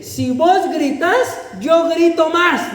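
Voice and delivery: a mother warning her daughter, slow and high-pitched; mother threatening. Retold or imitated. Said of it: "Y viene la mamá y le dice".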